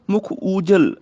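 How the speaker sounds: ਊਜਲ with a long "oo"; long initial vowel. Shown as a demonstration. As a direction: lengthen the first vowel of ਊਜਲ. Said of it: "ਊੜੇ ਨੂੰ ਦਲੰਕੜ". (ਊਜਲ ਵਿੱਚ ਲੰਮਾ "ਊ")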